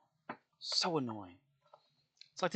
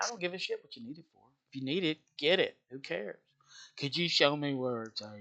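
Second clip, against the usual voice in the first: inner exasperation; 3 semitones higher than usual. Retold or imitated. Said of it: "I'm thinking".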